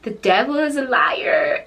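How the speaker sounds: hammed-up outburst of disbelief; exasperated outburst. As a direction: slowly build into a dramatic cry. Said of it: "I was like".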